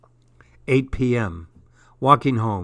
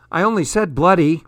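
quick, loud self-defence; indignant protest; 5 semitones higher, 6 dB louder, faster than usual. A narrator's reading. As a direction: protest fast, pitched up. Daughter protests at being scolded.

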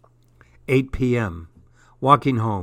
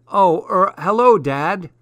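hesitant, louder and higher greeting; a bit surprised; 6 semitones higher, 6 dB louder than usual. A narrator's reading. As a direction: stumble into it, pitched up in surprise. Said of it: "I was a bit surprised".

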